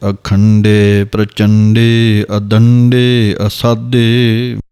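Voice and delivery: slow, measured chanting of verse; slow Gurbani path recitation; scripture recitation. Shown as a demonstration. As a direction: recite each line slowly and evenly, as in path.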